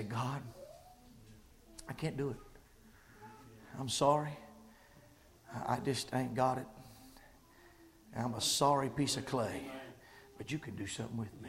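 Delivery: soft, halting humble prayer. Retold or imitated. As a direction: pause and confess gently. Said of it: "Just say".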